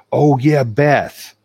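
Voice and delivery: loud, high, jokey "oh yeah" as if it had just come to mind; mock sudden remembering. Teasing the audience about forgetting Beth, loud and high. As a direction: pretend she only now remembered Beth. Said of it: "I'm kidding".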